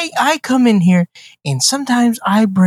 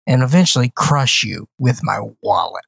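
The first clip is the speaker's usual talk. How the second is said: mock grandiose villain; 5 semitones lower than usual. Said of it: "can't even get through that in a straight face".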